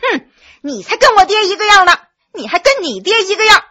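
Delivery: high-pitched, indignant comeback; loud defiant retort. A narrator's reading. Cornered boy answers the prince back, high defiant retort. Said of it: "大声说".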